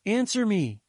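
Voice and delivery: high, pleading mother's call. A narrator's reading. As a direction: call urgently down the phone line. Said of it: "she called".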